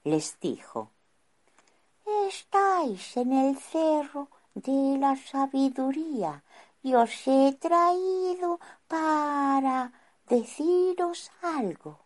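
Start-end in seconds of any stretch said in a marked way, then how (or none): 2.3-12.0 tranquil and smiling, higher wizard; calm smiling voice. Acted. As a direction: speak calmly with a smile. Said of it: "con voz tranquila y sonriendo".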